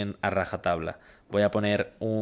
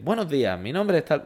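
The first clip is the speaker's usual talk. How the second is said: mock dull video intro; 7 semitones higher than usual. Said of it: "si empiezo a decirles".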